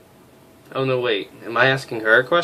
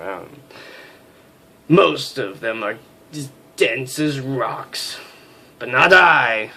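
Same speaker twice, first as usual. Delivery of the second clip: lightly voiced, haughty officer's inner monologue; stern major narrating; 4 semitones higher, 5 dB louder than usual. Major sizing up a new crew member, haughty. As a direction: read it like a proud, irritable major.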